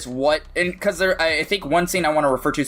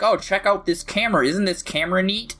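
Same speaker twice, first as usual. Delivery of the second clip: lightly voiced, higher-pitched fake enthusiasm; mock friendly lure; 6 semitones higher than usual. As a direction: imitate someone coaxing a child, pitched up. Voicing creepy character luring a kid.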